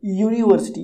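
"यूनिवर्सिटी" begun on a clear Y glide; opening Y sound. Shown as a demonstration. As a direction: stress the य that opens "यूनिवर्सिटी". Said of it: "वाई यानी कि य". ("यूनिवर्सिटी", य की आवाज़ से शुरू)

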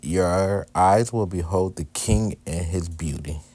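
slow, deliberate reading of the verse; speaking slowly. Shown as a demonstration. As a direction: read it out word by word, unhurried. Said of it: "then I'ma just be speaking slowly".

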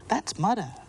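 put-on high child explaining; chirpy small-child voice; little girl voice. Natalie explaining the game to Abigail, high child voice. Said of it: "explained Natalie".

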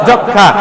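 "যক্ষা" with a doubled kh sound and silent m; kkh, silent মফলা. Shown as a demonstration. Teacher shows pupils the resulting sound, যক্ষা as jokkha. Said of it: "কি উচ্চারণ হয়েছে?".

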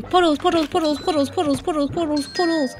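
soft, rapid singsong chanting; playfully annoying. Pretend. Player repeatedly calling to puddle slimes, playfully annoying. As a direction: pester with the same word over and over. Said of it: "Oh, annoying".

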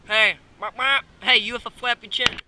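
loud calling to the animals. Real, not acted. Calling loudly to the flappy-chinned animal. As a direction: shout across the pen to them.

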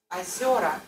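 Azora with first O said like A; Azora demo. Shown as a demonstration. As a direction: model Azora with reduced O. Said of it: "Pre-stress O-A".

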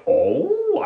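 high-pitched "oh" of surprise; acted surprise. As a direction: react in mock amazement. Acts reaction to onion allergy.

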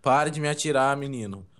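lightly mocked northeastern Brazilian accent; imitated Nordestino accent. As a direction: imitate a Nordestino, drawing out the last words. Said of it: "eu tô imitando nordestino". (imitando sotaque nordestino)

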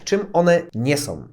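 one nie są, stressed; slow stress on czym one nie są. Shown as a demonstration. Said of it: "stressing what they are not".

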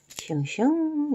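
high, slow sing-song swoosh; cheerful swooshing for the kids; playful sound effect. Acted. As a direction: draw out the swoosh like a kids' show. Playful glue-spreading sound effect.

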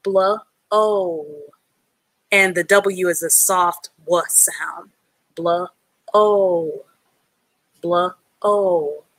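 "Blah" then "Oh" as separate sounds; sounding out blow. Shown as a demonstration. Teacher sounding out letters for a student. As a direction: split "Blow" into bl and oh. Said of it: "the O has the O sound".

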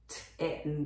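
kitten ending in a clear "ten"; over-pronounced. Shown as a demonstration. Teacher summing up the phonics reading, over-pronounced. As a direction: give the e in kitten its full phonics sound. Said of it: "発音をもうちょっと濃ゆめにすると".

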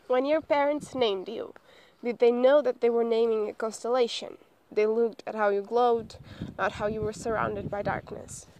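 measured poetry recitation; poem reading. Acted. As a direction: read the verse out with care, phrase by phrase. Reads a poem aloud.

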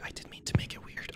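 barely audible unvoiced whisper; fainter whisper. Real, not acted. Gamer repeating the apology in a much fainter whisper.

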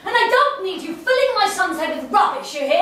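indignant warning. Acted. Mother ordering neighbour to take back the money, indignant. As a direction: warn the neighbour off sharply.

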